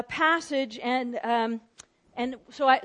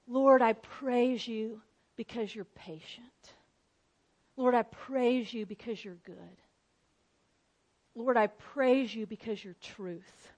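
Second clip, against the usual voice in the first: simple prayer; 3 semitones lower, 4 dB quieter than usual. Shown as a demonstration. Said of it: "each person just says".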